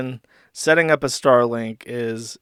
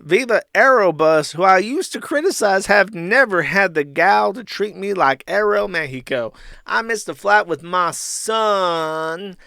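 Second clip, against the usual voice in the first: hammed-up indignant rant, higher and louder; mock outraged rant; 6 semitones higher, 4 dB louder than usual. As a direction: read it like a wronged drunk. Reading Ralph's tweet.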